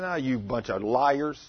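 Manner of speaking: doubting scoff. Acted. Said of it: "He said".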